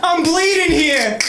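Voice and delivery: slow high hammed-up wounded cry; bleeding out. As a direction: play it like a fake dying man. Mock wounded cop.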